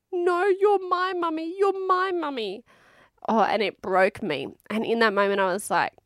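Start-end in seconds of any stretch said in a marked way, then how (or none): 0.1-2.6 plaintive child voice, retold; crying toddler. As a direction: imitate a sad little girl clinging to mum. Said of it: "she was crying and she's just going".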